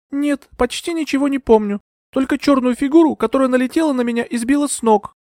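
put-on high young woman's voice, faltering; a dazed young lady explaining; young heroine. A narrator's reading. Euphemia explains herself to Bertram, high and faltering.

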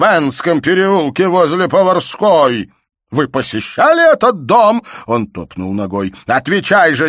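slow, loud, high-pitched rage at her; furious shout. A narrator's reading. Father shouts at his insolent daughter furiously. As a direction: hurl the insult at her.

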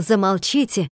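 ordinary delivery

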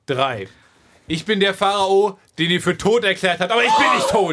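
grand royal address; ranting dictator speech. Acted. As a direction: proclaim yourself to the people. Pharaoh addresses the people.

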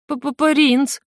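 high, stammering squeak of a frightened prince. A narrator's reading. Prince squeaks his name to the dragon, stammering. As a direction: stutter out the first sound, small and high. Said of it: "заикаясь, пискнул он".

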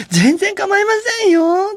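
very high, sugary service voice; overly polite server. Retold or imitated. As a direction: gush apologies like a too-sweet waitress. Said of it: "って". (声を裏返した過剰に丁寧な店員)

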